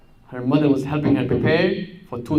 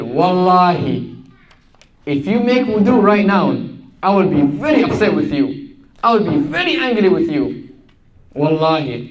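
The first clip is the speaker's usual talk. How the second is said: a touch of an angry mother, louder; mother's mild threat; 3 semitones higher, 4 dB louder than usual. Retold or imitated. Mother warning daughter not to make wudu, mildly angry. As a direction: swear it as a stern mother. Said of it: "that's what the mom said".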